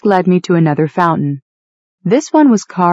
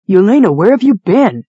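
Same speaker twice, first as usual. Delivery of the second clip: Cahill demanding an answer, voice raised; sharp, louder demand, pitch up on you; 4 semitones higher, 4 dB louder than usual. A narrator's reading. Cahill confronting Yelena about her whereabouts, demanding. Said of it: "he demanded".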